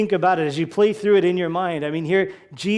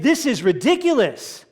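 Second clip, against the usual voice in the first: higher, louder, exasperated complaint; grumbling disciples voiced with higher, louder indignation; mock indignant outburst; 6 semitones higher, 3 dB louder than usual. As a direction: act out the disciples' outrage, a bit hammed up. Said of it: "they're somewhat angry even".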